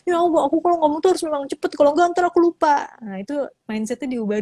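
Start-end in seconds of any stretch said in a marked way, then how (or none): 0.0-2.9 high, fast flustered complaint; nervous fast talker. Retold or imitated. Nervous speaker excusing her rush, high and quick. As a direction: play the anxious speaker who must rush. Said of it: "jadilah kita".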